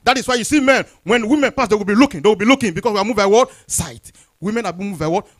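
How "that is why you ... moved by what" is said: higher, louder preaching burst; animated preaching. Acted. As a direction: press the point on the congregation. Preaches at raised force.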